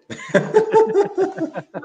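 a burst of real high laughter; bright embarrassed laugh; hearty laugh. Real, not acted. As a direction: laugh out loud at yourself. Guest laughs at own story.

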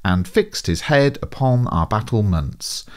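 slow, even iambic beat; iambic line. Shown as a demonstration. Teacher reading an example line in slow iambs. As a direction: tap out the da-dum rhythm slowly. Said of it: "For an example".

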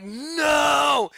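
high yelled no; shout. Retold or imitated. Dreamer shouting at a murderer, loud high yell. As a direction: yell to stop the killer. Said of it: "I'm like".

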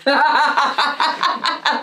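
high burst of real laughter; loud laugh. Real, not acted. Friends tease each other.

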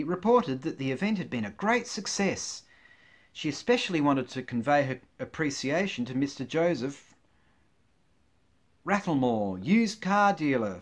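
lively newsreader delivery; measured, emphatic mock-bulletin voice; mock news read. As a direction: announce it like a local news bulletin. Reads mock newspaper items.

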